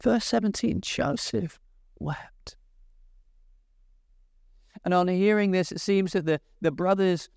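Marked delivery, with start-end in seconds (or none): 0.8-2.5 "Joseph wept" fading to a breath, softer; "Joseph wept" trailing off, much softer; hushed. Shown as a demonstration. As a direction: let "wept" die away into a hush. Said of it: "It breaks his heart".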